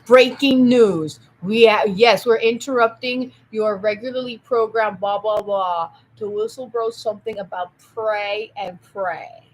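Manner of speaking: slow, loud breaking-news announcer; news anchor. Retold or imitated. A hint of a breaking-news anchor, slow and loud. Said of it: "so it's like".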